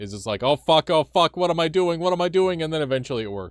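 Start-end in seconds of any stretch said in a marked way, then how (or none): 0.4-2.6 acted stressed, frantic panic, very loud and high. Retelling own reaction every time playing the game: imitating own stressed panic. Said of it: "be so stressed".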